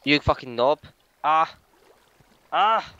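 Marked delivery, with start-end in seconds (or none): 1.2-2.9 short, loud, high cries; alarmed yelps. Real, not acted. Gamer in danger in the game, yelping. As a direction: yelp in quick bursts.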